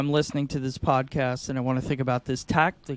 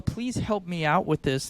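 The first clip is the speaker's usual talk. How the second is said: confused tone; 4 semitones higher than usual. Shown as a demonstration. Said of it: "they're hearing the confused tone".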